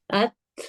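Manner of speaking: light T in ات with flowing breath; hams. Shown as a demonstration. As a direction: let air flow after the T of ات. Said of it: "تینوں sound جو ہے totally الگ".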